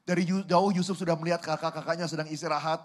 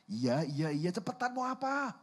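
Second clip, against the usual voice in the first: fed-up brother; 3 semitones higher, 4 dB quieter than usual. Acted. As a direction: hurry the kid along with exasperation. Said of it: "Ini kakaknya udah sebel banget".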